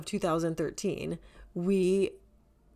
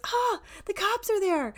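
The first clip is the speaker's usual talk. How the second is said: squealed much higher, in mock panic; panicked squeal; 14 semitones higher, 3 dB louder than usual. Friend squeals at the cops in panic. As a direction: imitate her shrill alarm. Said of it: "but she goes".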